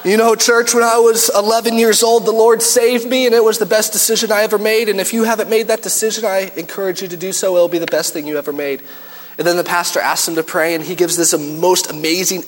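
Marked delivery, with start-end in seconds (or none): 0.0-8.8 lightly voiced sincere church dad; mock testimony voice. Dad giving a showy testimony to the church. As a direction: play the pious dad, lightly.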